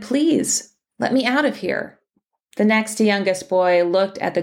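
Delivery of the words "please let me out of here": put-on high, pleading little boy; a hint of a begging child. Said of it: "pleaded with his".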